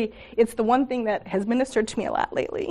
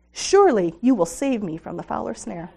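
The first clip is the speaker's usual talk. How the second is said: measured reading of a psalm verse; scripture reading. Acted. Speaker quoting the psalm to the ladies, measured reading. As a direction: read it out like scripture.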